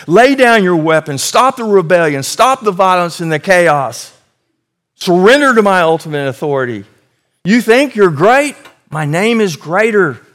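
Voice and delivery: loud, high commanding God voice. Acted. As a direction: thunder it down at the nations. God addressing the rebellious nations.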